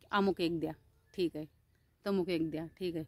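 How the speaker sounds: low, soft imitation of polite passengers; hushed. Passengers quietly asking conductor for tickets, hushed. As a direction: murmur it as in a silent bus. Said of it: "बसमध्ये आवाज नाहीये".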